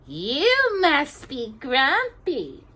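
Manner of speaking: slow mimicking of a gruff dwarf; slow playful mock-gruff voice; mock deep voice. A narrator's reading. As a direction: imitate Grumpy in jest. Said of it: "she said in a deep voice".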